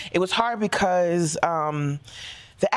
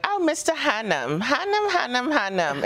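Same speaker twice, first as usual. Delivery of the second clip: Boston accent key words; 7 semitones higher than usual. Shown as a demonstration. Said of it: "a seventies Boston African-American dialect".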